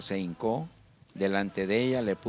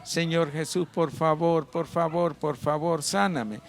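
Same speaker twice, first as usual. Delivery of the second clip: imitating a woman begging, slightly raised pitch; mock tearful plea; 3 semitones higher than usual. Sick woman begs Jesus to heal her, mock tearful plea. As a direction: plead repeatedly, lightly acting out her weeping. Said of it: "empezó a llorar y le decía".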